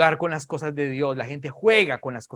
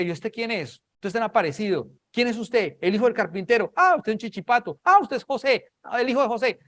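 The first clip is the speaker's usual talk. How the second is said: raised, incredulous heckling; scornful crowd; 7 semitones higher, 4 dB louder than usual. Acted. Doubters asking the carpenter's son who he is, scornful. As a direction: challenge him in a high, dismissive voice.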